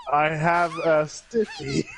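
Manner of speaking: slow robotic synthesized voice; deadpan like a text-to-speech program; computer voice. Pretend. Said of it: "computer voice".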